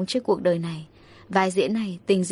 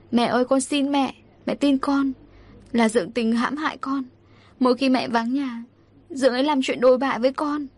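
higher-pitched, understated tearful plea; tearful pleading; 4 semitones higher than usual. Acted. Daughter begging mother to believe her, tearful pleading. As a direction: beg to be believed, voice raised in pitch. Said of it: "Tôi khóc lóc van xin mẹ".

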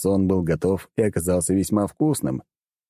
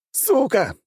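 yelled curse. A narrator's reading. Captain yells a curse into the darkness of the hold. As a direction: shout it into the dark. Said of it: "заорал я в полумрак".

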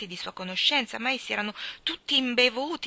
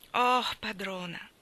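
moved servant; slower than usual. Acted. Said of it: "una commozione sincera ... gli vibrava nella voce".

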